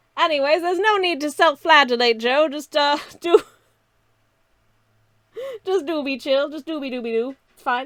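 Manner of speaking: put-on old-fashioned mid-Atlantic accent. Talking to himself mid-stream, in an old-timey mid-atlantic accent. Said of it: "redeeming the old-timey mid-Atlantic accent for the next five minutes".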